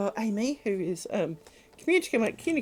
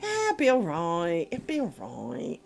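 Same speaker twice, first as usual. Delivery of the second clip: self-reassuring shrug; 3 dB quieter than usual. Retold or imitated. To herself about the flooding, slow soothing reassurance fading softer. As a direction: talk yourself down, slow, trailing off quietly. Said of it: "you do find yourself kinda going".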